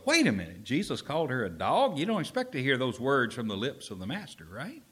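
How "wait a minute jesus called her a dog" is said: shocked reader. Retold or imitated. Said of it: "you go".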